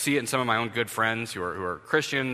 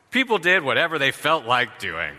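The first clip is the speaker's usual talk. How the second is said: emphatic; 4 semitones higher, 5 dB louder than usual. Real, not acted. Blunt translation, emphatic.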